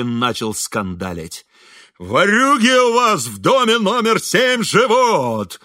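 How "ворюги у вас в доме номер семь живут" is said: howling loud and slow, much higher; furious bellowing janitor; yelling. A narrator's reading. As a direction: bawl it out across the yard like a drunk janitor. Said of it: "вопил дворник".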